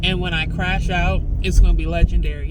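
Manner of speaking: loud, fed-up rant, barely holding it together; real anger. Real, not acted. Vlogger venting to camera, loud and furious. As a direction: let the fury spill out at people who won't listen. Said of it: "Anger is better than mania".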